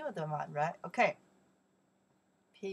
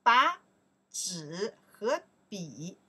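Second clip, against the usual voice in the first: slow model sentence; 5 dB louder than usual. Shown as a demonstration. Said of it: "they say".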